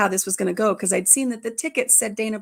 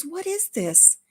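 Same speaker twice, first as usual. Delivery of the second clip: higher-pitched mock puzzlement; feigned surprise; 7 semitones higher, slower than usual. Grandpa pulling out purple tickets, mock surprised. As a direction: pretend you have no idea.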